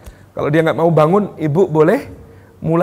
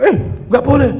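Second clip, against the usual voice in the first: scolding parent; 8 semitones higher, 4 dB louder than usual. Retold or imitated. Parent snapping at child wrongly.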